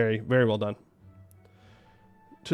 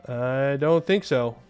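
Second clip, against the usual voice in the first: drawn-out refusal; 3 semitones lower, slower than usual. Real, not acted. Slow repeat of refusal.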